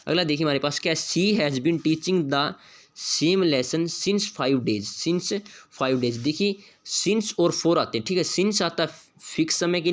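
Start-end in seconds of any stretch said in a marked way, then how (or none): 1.0-6.2 reads the test sentence very slowly, word by word; slow dictation reading. Shown as a demonstration. Teacher reading the question sentence aloud, very slow. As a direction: spell it out slowly for the class.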